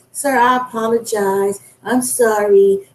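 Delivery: slow, drawn-out mock apology. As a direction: imitate a grovelling apology, dragging out the sorry. Mimics an apology she'll never give.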